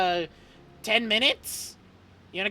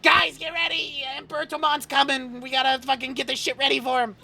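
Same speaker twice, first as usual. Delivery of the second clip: shouting orders; 8 semitones higher than usual. Acted. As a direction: bark orders at the workers. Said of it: "you hear him be like".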